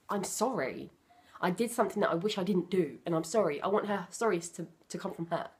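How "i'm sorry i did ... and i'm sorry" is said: sincere apology. Retold or imitated.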